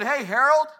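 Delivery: the voice of God calls Harold to cry; calling out. Retold or imitated. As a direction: summon the prophet by name. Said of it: "the voice said".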